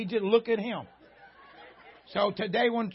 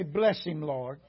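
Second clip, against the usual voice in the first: a lower, softer hint of a pitying churchgoer; mock pitying church lady; 7 semitones lower, 5 dB quieter, much slower than usual. Church member pitying the redneck preacher, lightly mock sigh. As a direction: sigh it out like a forgiving elder. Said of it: "you just say".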